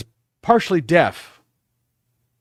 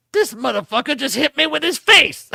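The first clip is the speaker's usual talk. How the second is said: 1 stunned bully; 12 semitones higher than usual. Retold or imitated. Bloodied bully's stunned reaction.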